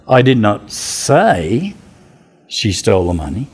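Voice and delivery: "say" stretched long with a pitch swoop, then pause; stress on SAY. Shown as a demonstration. Teacher showing how stress changes meaning, stressing "say". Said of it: "say the same words, different ways".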